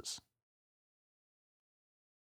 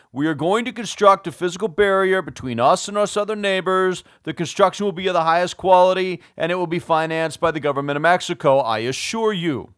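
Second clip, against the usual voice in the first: louder, higher, faster official-sounding recital; mock formal statement; 4 semitones higher, 6 dB louder, faster than usual. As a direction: parody an over-worded political statement, briskly. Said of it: "he doesn't say".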